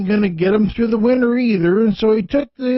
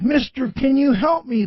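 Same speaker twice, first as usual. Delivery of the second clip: put-on Spanish accent; 6 semitones higher than usual. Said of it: "with a deep Spanish accent".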